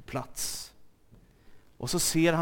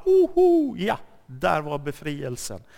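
mock surprise; 4 dB louder than usual. Mocking sudden relief from doubt.

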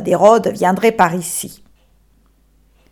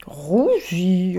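an unvoiced, softer "Rouzy"; whispered name; 4 semitones lower, 7 dB quieter than usual. L'âne répète le nom du pays, chuchoté. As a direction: murmur the strange name to himself.

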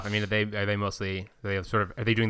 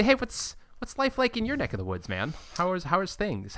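casual check-in voice; 7 semitones higher, 4 dB quieter than usual. Retold or imitated. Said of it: "and sort of say".

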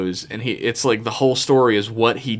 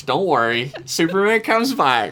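playfully placating, sing-song lift in the middle; mock reassurance; 7 semitones higher than usual. Host humoring his upset friend about Superman, mock reassuring. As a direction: soothe him like a child, pitch lifting high.

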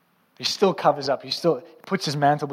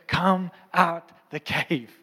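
slow, spaced-out summons; slow, weighty command as God's voice; God calling; much slower than usual. Retold or imitated. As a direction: call him out one deliberate word at a time. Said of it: "he's speaking to him. He's saying".

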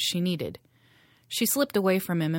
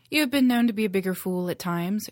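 snapped; 3 semitones higher, 4 dB louder than usual. Acted. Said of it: "she snapped".

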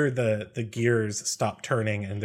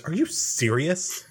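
high, drawn-out rising question; incredulous; 5 semitones higher, slower than usual. Acted. Eckerd to the captain demanding the monster be questioned, incredulous. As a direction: stretch it out in disbelief.

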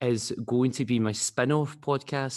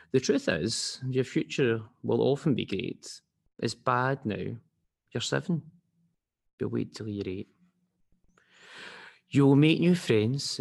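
measured storybook rhyme with pauses; children's story reading; 2 semitones higher than usual. Acted. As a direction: read it to a child, line by line. Reads children's story aloud.

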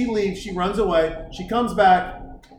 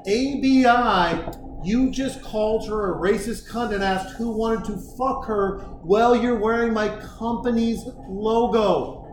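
disapproving buddy. Retold or imitated. Buddy scolding him for shaming the company, deliberate stern lecture. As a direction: spell out the reprimand with hard pauses. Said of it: "my buddy's like".

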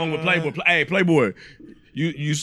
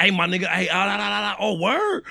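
mock fake phone call; 4 semitones higher than usual. Acting fake emergency call.

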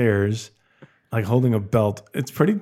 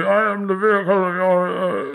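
muffled villain voice through a mask; Bane voice; 7 semitones higher than usual. Pretend. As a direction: talk like speaking through a face mask. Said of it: "Can you do the Bane voice?".

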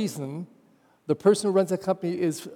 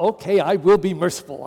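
grudging; 4 dB louder than usual. Retold or imitated. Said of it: "As if you can be merciful just by law".

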